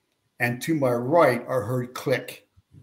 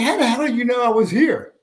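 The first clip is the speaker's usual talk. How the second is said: astonished question; 12 semitones higher, 5 dB louder than usual. Retold or imitated. Retold astonishment on phone.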